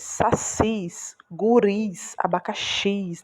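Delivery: sacis, guris, abacaxis, each with a drawn-out final syllable; stress on last syllable. Shown as a demonstration. Teacher listing oxítonas, stress on the last syllable of sacis, guris, abacaxis. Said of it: "Você faz mais força pra falar".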